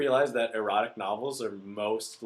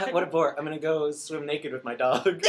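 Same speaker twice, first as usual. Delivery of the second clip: mock bored, higher and louder, laughing through it; 4 semitones higher, 3 dB louder than usual. Friend imitating the bored heroine for laughs, mock bored and laughing.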